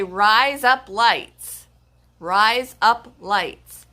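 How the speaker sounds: "rise up lights" slow, word by word; slow phonetic demo. Shown as a demonstration. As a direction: spell out "rise up lights" slowly, each word distinct. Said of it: "sounds like razor blades with an accent".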